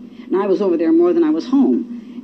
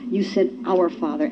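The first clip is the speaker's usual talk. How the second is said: awed hush; 6 dB quieter than usual. Real, not acted. Awed conclusion.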